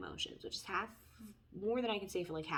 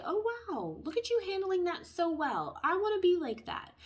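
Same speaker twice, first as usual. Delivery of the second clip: much higher, louder, gushing praise; admiring gush; 9 semitones higher, 4 dB louder than usual. Retold or imitated. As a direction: squeal it like an impressed friend. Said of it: "people around you are gonna say".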